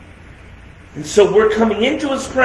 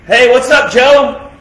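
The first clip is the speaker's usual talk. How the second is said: casual greeting; 3 semitones higher, 3 dB louder than usual. Retold or imitated. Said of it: "like you would greet the President".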